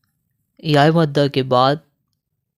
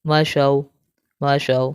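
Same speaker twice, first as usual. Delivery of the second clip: slow, chanted letter-by-letter spelling; Qaida drill recitation; slower than usual. Shown as a demonstration. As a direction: spell each syllable out, then join and stop. (قاعدہ کی ہجے والی قراءت)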